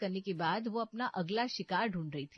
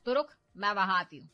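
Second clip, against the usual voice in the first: a scheming mother pushing her daughter, loud in places; 6 dB louder than usual. Acted. Mother urges daughter to throw out mother-in-law, bossy. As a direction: egg your daughter on, bossy and sure.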